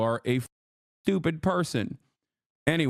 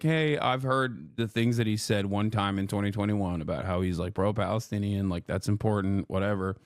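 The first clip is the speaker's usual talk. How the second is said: mock charitable self; 8 semitones lower than usual. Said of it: "And I was just like".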